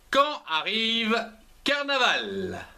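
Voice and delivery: measured poem reading, pausing between phrases; poem recitation. Acted. Host reads a Carnaval poem to pupils, measured recitation. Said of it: "Voici mon poème".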